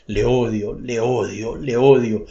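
repeated hatred pressed between the teeth; through clenched teeth. Acted. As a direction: spit the hate out between teeth. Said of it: "pronunciándolo entre dientes".

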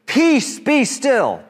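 high, ringing command to the storm; Jesus ordering the waves to calm; commanding rebuke. Acted. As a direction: still the sea with one firm word.

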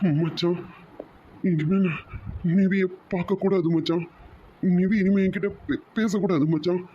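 mildly tearful, broken into short phrases; halting, upset confession. Acted. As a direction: get it out through held-back tears. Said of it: "எதுக்குடா இப்ப நீ அழற?".

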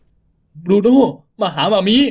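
calling out. Acted.

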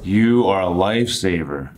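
emphatic thanks with weighted words; hugely grateful. Shown as a demonstration. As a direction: thank them like a rescuer. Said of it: "As if the other person had saved you from dying".

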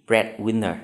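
"Breadwinner" stressed on BREAD, falling after; first-syllable stress. Shown as a demonstration. Teacher showing students compound-noun stress, "Breadwinner" stressed on first syllable. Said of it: "nhấn dấu nhấn ở âm tiết đầu".

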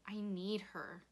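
hushed, breathy plea; grieving. A narrator's reading. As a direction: say it small into his shirt. Rob grieving in father's shirt.

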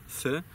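"Sy" said with the tongue between the teeth like English th; English th sound. Shown as a demonstration. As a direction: lisp "Sy" through the teeth. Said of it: "to są te angielskie z". ("Sy" jak angielskie th, język między zębami)

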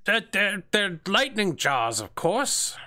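put-on fussy old assistant. The pinned old assistant explains the sparking jars. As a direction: explain it like it's obvious.

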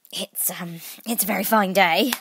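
hesitant small talk; falter, then rise nervously; timid, stumbling opener. A narrator's reading. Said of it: "said a timid voice".

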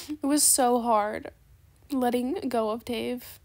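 slow, drawn-out mock sorrow; sarcastically heartbroken. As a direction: dwell on the loss with pretend pain. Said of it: "I'm being extremely sarcastic".

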